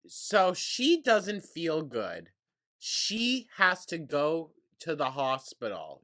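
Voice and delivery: loud, high, drawn-out indignation; exasperated mockery. Real, not acted. Commentator on the hospital decision, loud exasperated mockery. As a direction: spell it out loudly with high, heavy emphasis.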